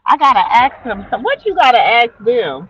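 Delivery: lively loud. Retold or imitated. Retelling kids, amused.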